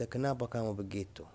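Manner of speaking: soft caring question to an upset friend; gentle concern. Shown as a demonstration. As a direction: softly ask what's wrong. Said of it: "قدامك زعلان، تقول له أنت".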